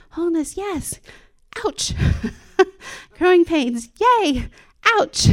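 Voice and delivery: high, laughing yelps of mock pain; laughing ouch. Real, not acted. Joking to the church about growing pains, high laughing squeals.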